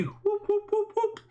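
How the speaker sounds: high-pitched victory whoops; celebratory whoops. Real, not acted. Streamer cheering his own won flip, high whoops.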